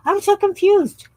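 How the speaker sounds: high, loud, stretched-out "so" in mock bewilderment; exasperated. Real, not acted. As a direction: throw up your hands in confusion. Exasperated at herself while sorting.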